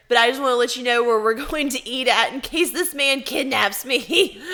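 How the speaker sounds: laughing through the words; amused telling that ends in a loud laugh; cracking up. Real, not acted. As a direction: let the line break into real laughter. Joking text, cracking up.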